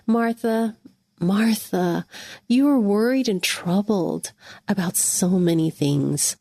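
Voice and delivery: gently voicing Jesus with a lightly loving tone; a hint of a tender Jesus. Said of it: "use a loving voice".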